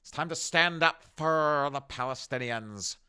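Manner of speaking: high, loud charge call; mock battle cry. Small protester charging police, a loud mock rallying cry. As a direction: hype the troops, half mocking.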